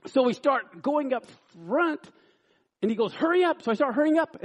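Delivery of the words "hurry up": raised, high retold command; mock-urgent prod; impatient robber order. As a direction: act a gunman hurrying someone along. Retold robber orders him along.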